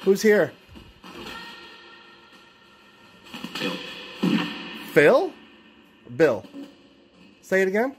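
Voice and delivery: calling out. Real, not acted. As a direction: shout a name out to whoever is there. Calling out to spirits in room.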